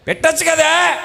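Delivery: high mocking mother voice. Mother telling husband to just make it, high. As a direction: pitch it way up as the wife.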